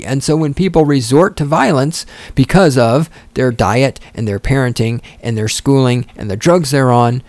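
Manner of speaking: usual speaking voice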